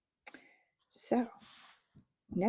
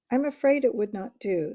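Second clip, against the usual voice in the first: gravely; 3 semitones higher, 8 dB louder than usual. A narrator's reading. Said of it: "said Peter very gravely".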